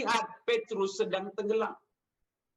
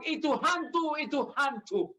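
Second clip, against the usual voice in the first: high-pitched retold cry of fear; mock frightened cry; 4 semitones higher than usual. Preacher voices disciples seeing Jesus on the water, mock frightened cry. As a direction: imitate scared men mistaking someone for a ghost. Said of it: "mereka teriak karena takut".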